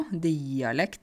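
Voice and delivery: rural Norwegian dialect DIALEKT, broad; own dialect. Shown as a demonstration. Teacher showing learners the word in home dialect. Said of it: "hvis jeg skal snakke dialekt nå".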